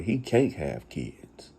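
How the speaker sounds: hushed gossip whisper; whispered aside. Real, not acted. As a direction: drop to a whisper for the secret. Conspiratorial aside about the husband.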